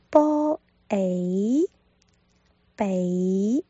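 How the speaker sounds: 波诶 sounded out then 北 said whole; Cantonese bak. Shown as a demonstration. Teacher spelling out 北 for learners, sounded out. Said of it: "尾音落在一上面".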